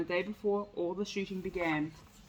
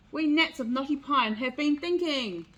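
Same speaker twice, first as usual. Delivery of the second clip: shouting gnat; 5 semitones higher, 5 dB louder than usual. Acted. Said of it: "Nate shouted at the top of his voice".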